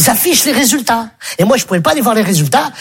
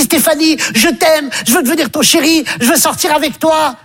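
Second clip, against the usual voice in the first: lovestruck friend; 4 semitones higher than usual. Acted. Friend declares love in street.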